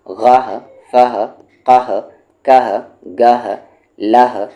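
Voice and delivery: firm classroom chant; syllable drill. Shown as a demonstration. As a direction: call out each syllable clearly for pupils to repeat. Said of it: "teacher drills syllables ending in ha".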